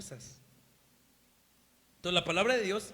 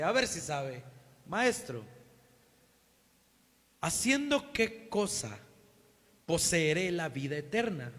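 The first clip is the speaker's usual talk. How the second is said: sarcastic; 4 dB louder than usual. Retold or imitated. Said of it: "me imagino sarcásticamente a este doctor".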